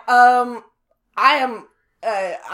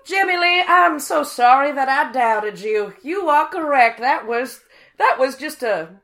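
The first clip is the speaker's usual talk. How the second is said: effusive apology; 7 semitones higher, 11 dB louder than usual. Acted.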